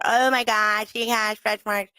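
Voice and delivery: scandalized mock gossip, drawn out at the end; mock shock at someone's body; mock critic. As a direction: imitate a judgmental critic, stretching the words. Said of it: "so when someone says".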